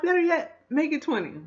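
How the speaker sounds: very high, loud mock command; shouted hold-up order. Annie ordering the couple to count longer, shouted order. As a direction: yell the revised stick-up order. Fake-gun hold-up, acted out.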